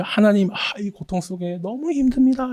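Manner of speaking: high, strained cry to God; anguished plea. Retold or imitated. Psalmist crying out to God in pain, anguished plea. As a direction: plead like a suffering psalmist. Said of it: "이렇게 계속 부르짖었는데".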